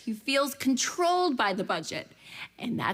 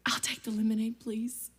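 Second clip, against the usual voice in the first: whispered, much softer order; meek whisper; 4 dB quieter than usual. Retold or imitated. Ordering from the waitress, meek whisper. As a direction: order it in a small defeated voice.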